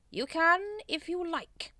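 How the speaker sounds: high-pitched, loud allowance; pompous, exasperated permission; testy concession. A narrator's reading. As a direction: give in with strained patience. Grand Master concedes testily.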